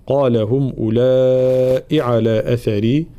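measured Quran recitation with long held vowels; ترتيل قرآني. Shown as a demonstration. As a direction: recite slowly, stretching the madd. (تلاوة مرتلة بمدود طويلة)

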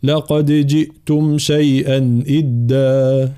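slow melodic tajweed chant; Quran recitation. Acted. Teacher recites. (تلاوة مجودة)

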